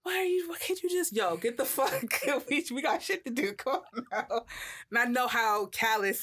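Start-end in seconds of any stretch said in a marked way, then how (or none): 0.0-1.2 much higher, pleading voice; imitating girlfriend. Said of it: "but she was just". 1.2-4.4 higher, laughing impatient urging; mock impatience. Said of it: "she was just".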